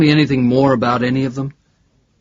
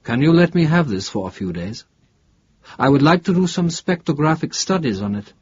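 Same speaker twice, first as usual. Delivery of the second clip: a touch of eager academic; lightly voiced professor; 5 semitones higher than usual. Professor asking investigator to lend the metal, lightly voiced. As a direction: lightly press the request as a professor.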